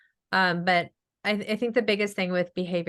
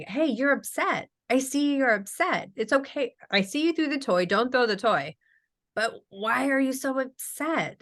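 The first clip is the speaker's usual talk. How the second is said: put-on acknowledging a child; 5 semitones higher than usual.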